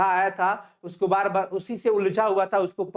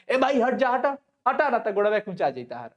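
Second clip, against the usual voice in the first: rude cart driver. Retold or imitated. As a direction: shoo someone off the road, gruff. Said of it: "ऐसे बोलते हैं ना जी".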